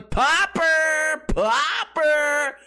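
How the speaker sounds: high, drawn-out imitated holler; hammed-up yell, stretching each word; mock yelling. Comic imitating idiots knocking balls off the table, mock yelling. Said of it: "and yelling".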